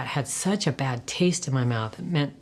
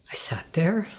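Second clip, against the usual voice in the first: 1 whisper; 3 semitones higher than usual. Real, not acted. Recalling tense moment, whispered.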